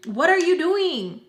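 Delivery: high, drawn-out mock yell; retold yelling. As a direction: stretch it out in protest. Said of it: "We're literally yelling at each other".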